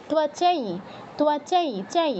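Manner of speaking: "ত্বচাই" with anusvara heard as nasal ee; nasal i sound. Shown as a demonstration. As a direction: model "ত্বচাই", gliding into a nasalised ee. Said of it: "শুনতে লাগবে ই হসন্ত চন্দ্রবিন্দুর মতো".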